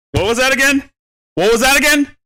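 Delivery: high taunting voice; playful high taunt; mock taunt.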